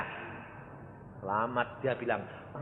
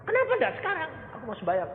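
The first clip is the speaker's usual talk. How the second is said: insistent question; much faster than usual. Retold or imitated. Preacher pressing his son.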